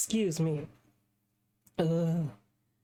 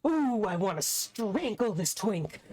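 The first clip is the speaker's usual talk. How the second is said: mock-seething; 3 semitones higher than usual. Defender fuming at the smarmy prosecutor, mock-seething. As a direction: relish the threat with mock fury.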